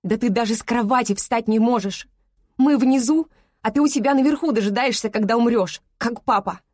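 loud, rage-filled accusation; hurling the blame at mother; shaking with anger. Acted. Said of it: "Мой голос дрожит от ярости". (гневный крик с дрожью)

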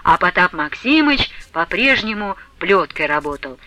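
ordinary delivery, nothing marked

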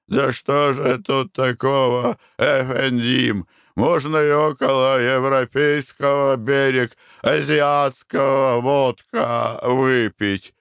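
put-on slow high broken Russian, Armenian accent. Karapet's accented reply.

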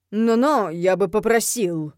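loud, drawn-out offended objection; affronted, starting loud; indignant protest. A narrator's reading. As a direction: object with wounded dignity. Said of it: "возмутился Рафаэль".

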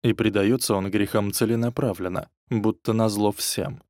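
plain reading voice

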